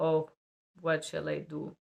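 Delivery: a lightly voiced fretful patient; worried patient. Patient left alone asking what to do, mildly fretful. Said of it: "for example".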